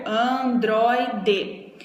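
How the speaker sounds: "Androide" divided as an-droi-de; syllable by syllable. Shown as a demonstration. Teacher showing the word has three syllables, "Androide" split up. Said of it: "a gente tem três sílabas".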